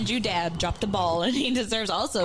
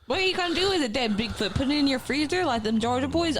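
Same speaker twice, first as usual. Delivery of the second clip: incredulous rant; 7 semitones higher than usual. Retold or imitated. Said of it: "I'm like".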